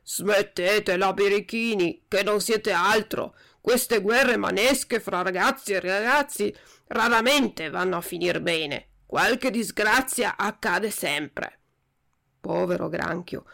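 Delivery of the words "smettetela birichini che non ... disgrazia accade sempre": slow, rough crab voice like a trombone with a cold; a crab scolding the brawling boys, slow and rough; voice of a croaky old crab. Acted. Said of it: "con una vociaccia de trombone infreddato".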